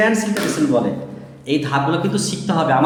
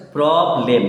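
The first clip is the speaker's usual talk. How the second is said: split into syllables; 2 semitones lower than usual. Shown as a demonstration. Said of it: "দুটো syllable আছে".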